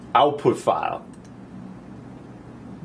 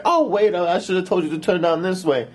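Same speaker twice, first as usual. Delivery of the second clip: put-on higher, scatterbrained girl; flustered girl giving directions; ditzy girl voice; 7 semitones higher than usual. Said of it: "She's like".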